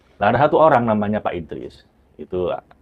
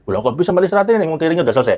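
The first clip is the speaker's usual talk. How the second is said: higher, louder mock surprise; retold puzzlement; 8 semitones higher, 3 dB louder, much faster than usual. Trainer questioning an alumnus's odd answer, puzzled. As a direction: act out a baffled objection, pitched up.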